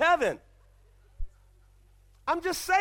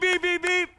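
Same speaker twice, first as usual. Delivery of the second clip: higher mock horn beeps; imitated car horn; 4 semitones higher than usual. Preacher mimicking a driver's horn, light beeps. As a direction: toot like an impatient driver. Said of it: "sound of a horn going beep".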